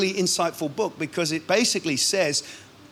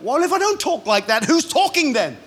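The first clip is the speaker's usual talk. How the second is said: higher, louder, laughing through it; laughing retort; 8 semitones higher, 4 dB louder than usual. Real, not acted. Preacher answering a critic, laughing retort. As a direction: toss it back with a laugh.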